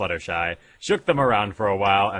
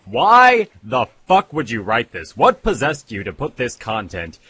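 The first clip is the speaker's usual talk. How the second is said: exasperated rhetorical question; 2 semitones higher, 6 dB louder than usual. Retold or imitated. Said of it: "I'm asking myself".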